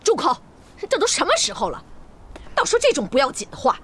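stern rebuke. Acted. Lady silences the concubine.

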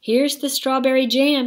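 high, loud happy shout; excited shout. A narrator's reading. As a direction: shout it out proudly. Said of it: "shouted Jack".

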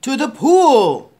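loud, drawn-out shout; fireman's yell. A narrator's reading. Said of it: "yelled the fireman".

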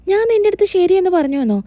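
high-pitched disbelief; incredulous question. Acted. Varsha questioning Revathi's claim, incredulous. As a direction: throw the claim back as a question. Character disputes what she said.

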